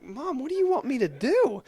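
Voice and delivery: mock-frantic high plea; flustered kid. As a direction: beg her in a fluster. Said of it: "And I'm like".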